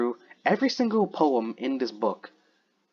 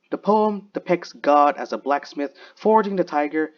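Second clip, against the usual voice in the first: higher-pitched, measured read from a book; reading aloud; 4 semitones higher than usual. Real, not acted. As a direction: read out the poet's introduction with deliberate emphasis. Reads the book's introduction to the poem.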